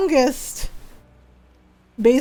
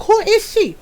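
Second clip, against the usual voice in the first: raised, higher scolding yell; mock yell of a scolding mother; mom yelling; 5 semitones higher than usual. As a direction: call down the hall at your son. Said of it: "we could hear my mom yelling down the hall".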